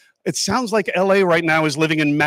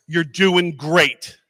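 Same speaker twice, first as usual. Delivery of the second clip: heartfelt encouragement; much slower than usual. Real, not acted. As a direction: deliver it slowly as a gift to the room. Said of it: "Horror writers".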